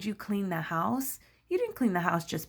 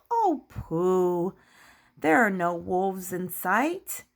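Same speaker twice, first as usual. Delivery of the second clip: lightly voiced, dismissive pig sister; pooh-pooh it, drawing the words out slowly; slower than usual. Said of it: "And then Sister Pig says".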